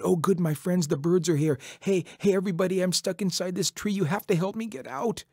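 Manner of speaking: high, loud plea for help; urgent calling out. A narrator's reading. Trapped Coyote to his bird friends, calling urgently for help. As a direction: call eagerly to rescuers.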